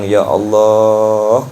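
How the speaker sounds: pleading prayer. Acted. Preacher voicing a servant begging God. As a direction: stretch out ya Allah slowly.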